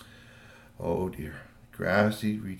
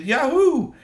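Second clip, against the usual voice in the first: much higher and louder whoop of joy; gleeful cheer; 14 semitones higher, 6 dB louder than usual. Acted. Troll girl cheering at the grabbed backpack, gleeful whoop. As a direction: cheer like you just won. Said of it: "and she said".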